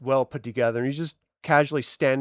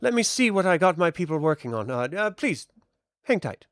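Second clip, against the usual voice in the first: lightly raised polite stalling; seamstress; 5 semitones higher than usual. Acted. Seamstress stalling the adventurers, lightly higher. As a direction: put them off politely. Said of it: "It's like".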